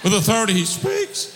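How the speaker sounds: ringing preacher's shout; forceful retake. Real, not acted. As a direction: belt out the line again, stronger. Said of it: "There's my throat's gone".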